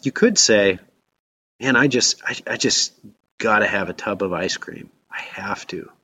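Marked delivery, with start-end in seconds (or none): 1.6-5.9 a craving voice fading into a whisper; blended craving. Shown as a demonstration. Preacher demonstrating a blended temptation, fading to a whisper. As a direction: sound helplessly swallowed by the urge. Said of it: "three different ways that you could phrase".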